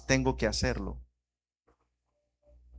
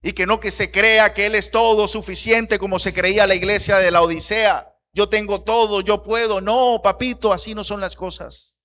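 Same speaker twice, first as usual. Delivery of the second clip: raised, higher-pitched preacher's rebuke; impassioned preaching; 6 semitones higher, 6 dB louder than usual. Real, not acted. Preacher rebuking a son who thinks himself self-sufficient, impassioned. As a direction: push it out hard, then ease off at the end.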